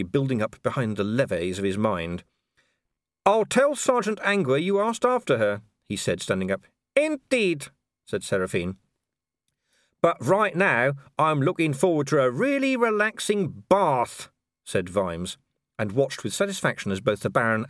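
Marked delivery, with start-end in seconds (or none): 3.3-5.6 a dry, understated copper's retort; dry Vimes. A narrator's reading. Vimes voiced in dialogue. 6.9-7.7 high, polite baroness voice with a thin smile; a smiling aristocrat who means none of it; cool hostess smile. A narrator's reading. 10.0-14.3 dry, pointed remark meant to sting; pointed Vimes. A narrator's reading. Vimes voiced in dialogue.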